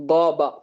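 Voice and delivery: காபா with a ringing gh from the upper throat; resonant upper-throat sound. Shown as a demonstration. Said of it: "கணீர்னு வரும்".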